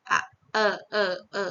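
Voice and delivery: E as a lighter vowel with teeth apart; open-mouthed vowel. Shown as a demonstration. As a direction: open up on each E, separated and light. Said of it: "posisi gigi yang lebih terbuka".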